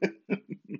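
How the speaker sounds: soft high giggle trailing off; amused giggle. Real, not acted. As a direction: giggle at your own anecdote. Cracks up at own story.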